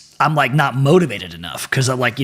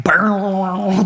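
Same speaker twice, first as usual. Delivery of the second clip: imitated guitar stop; 6 semitones higher than usual. Imitates guitar stopping abruptly.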